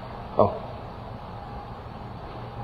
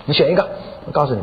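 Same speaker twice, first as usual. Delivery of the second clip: retold insistent ultimatum; pressing husband. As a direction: push relentlessly for a choice. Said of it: "就趁机会就逼她".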